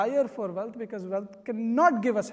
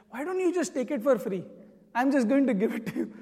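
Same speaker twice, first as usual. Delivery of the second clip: mildly exasperated, raised pitch; retold irritation; 3 semitones higher, faster than usual. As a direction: imitate a fed-up shopkeeper giving in. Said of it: "he's really irritated with this guy".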